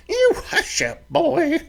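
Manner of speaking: sharp high snap at her son; snapping. Acted. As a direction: cut him off with a sharp snap. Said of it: "Millie snapped".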